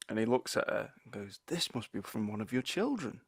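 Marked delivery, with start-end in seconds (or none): 1.5-3.2 lightly imitated condescending explanation; sarcastic, patronising. Cousin reading card to blind grandmother, mildly sarcastic and patronising. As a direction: spell out the obvious with mock helpfulness. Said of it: "he's just proper sarcastic with it".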